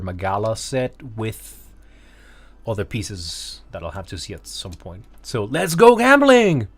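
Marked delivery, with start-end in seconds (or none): 5.4-6.7 drawn-out, high hype callout; hype gambling meme shout. Pretend. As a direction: belt it like the meme. Meme catchphrase called out.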